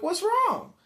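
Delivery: very high, loud question; alarmed bystander. Retold or imitated. Storyteller replays asking a fallen man, alarmed. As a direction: call out in exaggerated concern.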